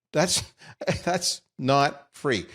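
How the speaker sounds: slow amused repeat with a laugh; chuckling not free. Real, not acted. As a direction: savor it, chuckling through.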